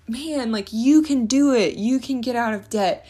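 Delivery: imitating her own excited money pep talk; cheerleading a friend out of debt, eager and upbeat; hyped-up pep talk. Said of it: "my husband makes fun of me because I'm like".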